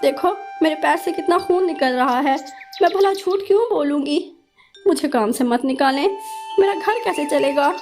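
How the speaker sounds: a high, pleading mother bird, close to tears. Acted. Injured mother begs the crow boss for her job, pleading. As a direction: beg the boss not to fire her.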